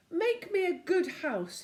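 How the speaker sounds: bossy snowman. Acted. Snowman commands.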